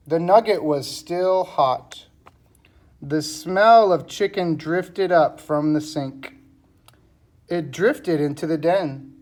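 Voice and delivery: measured, emphatic storybook reading; reading to children. A narrator's reading. Teacher reading the cat story to pupils, storybook narration. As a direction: read each sentence out clearly, with pauses between.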